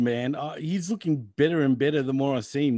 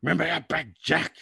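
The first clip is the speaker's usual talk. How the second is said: mock Vince voice; slower than usual. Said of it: "They'd be like".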